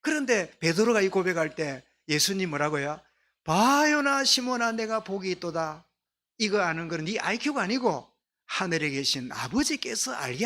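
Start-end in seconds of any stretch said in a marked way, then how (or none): 3.4-5.8 solemn proclamation. Acted. Jesus praises Peter after his confession, solemn proclamation. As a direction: pronounce a blessing, stretching the first name.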